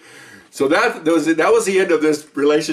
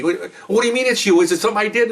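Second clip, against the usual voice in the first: mock hurt protest; 5 semitones higher than usual. Acted breakup, hurt partner.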